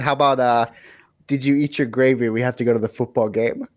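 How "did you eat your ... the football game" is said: plainly voiced American sample line; very American accent. Shown as a demonstration. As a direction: demonstrate an everyday American accent. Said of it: "Something very American".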